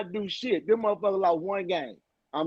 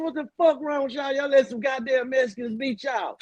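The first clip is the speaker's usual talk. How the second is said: pitched-up mock coach tirade at the team; retold locker-room rant; 4 semitones higher than usual. Father retelling his halftime rant to the boys, pitched up. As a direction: chew out the players the way he did. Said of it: "I said".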